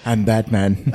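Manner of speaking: low gruff Batman growl. Pretend. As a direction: growl it like the Dark Knight. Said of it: "I can't wait to hear his Bat voice".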